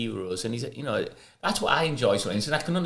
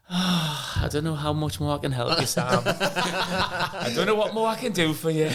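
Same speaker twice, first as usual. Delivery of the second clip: disappointment; 4 semitones higher, slower than usual. Retold or imitated. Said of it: "He would always just be like".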